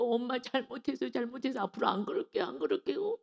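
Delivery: high, whiny mock child pleading; imitating a whiny child's fake apology. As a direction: play the child faking remorse. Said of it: "말로만 땡깡부려 그러거든요".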